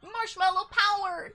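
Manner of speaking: sing-song cereal ad leprechaun; Lucky Charms leprechaun. Retold or imitated.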